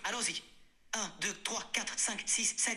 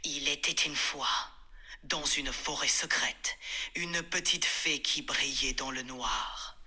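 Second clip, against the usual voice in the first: dramatic. Shown as a demonstration. AI retells the fairy story in a dramatic tone. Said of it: "sur un ton dramatique".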